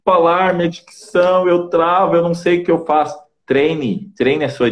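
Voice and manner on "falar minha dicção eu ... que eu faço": worried listener. Retold or imitated. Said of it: "imagined listener's complaint".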